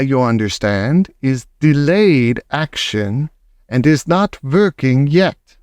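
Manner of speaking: a commanding witch presenting her formula; grand witch announcing. Acted.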